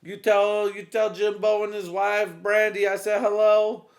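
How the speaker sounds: high, loud sweet wife voice; wife's voice. Retold or imitated. Wife sending greetings to friends, high and loud. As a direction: chirp it like a doting wife. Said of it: "She's like".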